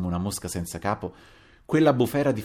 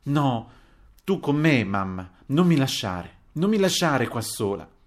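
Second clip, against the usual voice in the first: acted pleading, raised voice; tearful cry; 5 semitones higher, 4 dB louder than usual. A narrator's reading. Daughter begging her mother to stay, tearful cry. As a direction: plead loudly and higher, drawing out the words. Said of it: "piangendo e gridando".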